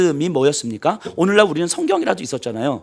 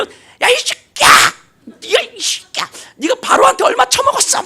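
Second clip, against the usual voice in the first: angry mob yell; 5 dB louder than usual. Retold or imitated. Angry crowd voiced at Moses.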